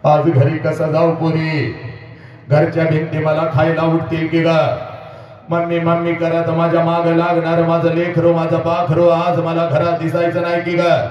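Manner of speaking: mother's wail. Acted. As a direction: lament like a mother losing her daughter. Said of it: "पहिला हंबरडा तुझी आई फोडते पोरी".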